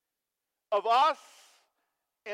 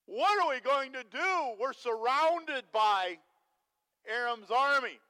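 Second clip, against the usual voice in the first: panicked servant; 3 semitones higher, 6 dB louder, slower than usual. Retold or imitated. Panicked servant surrounded by army.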